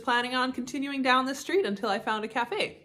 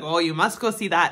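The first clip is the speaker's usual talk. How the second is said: lightly imitated Thai accent, lower; a hint of a Thai local urging; mock Thai accent; 4 semitones lower than usual. Local man urging a tourist to sightsee, light mock Thai accent. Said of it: "go into a bit of an accent".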